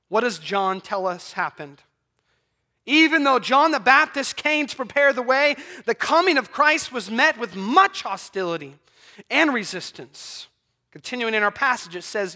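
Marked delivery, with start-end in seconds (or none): 2.8-10.5 raised, emphatic preacher's delivery; preaching. Acted. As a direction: preach it out with punched words.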